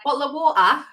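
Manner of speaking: imitated British "bottle of water"; British accent. American retelling her British coach's lesson, British accent. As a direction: put on the British pronunciation. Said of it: "he was like".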